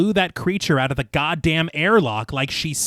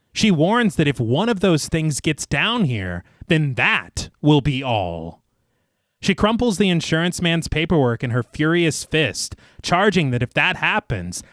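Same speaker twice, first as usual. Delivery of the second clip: story narration; slower than usual. A narrator's reading. Narrator recaps the inquiry scene for listeners, measured storytelling. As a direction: read it like a polished audio storyteller. Reads scripted film recap.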